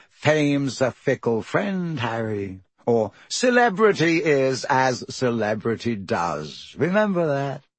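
slow, indulgent celebrity drawl; lightly voiced Lockhart. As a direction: hand out a chore as if it were a treat. Lockhart pontificating.

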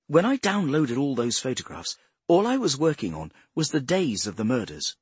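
a hint of an eager explainer; earnest speaker.

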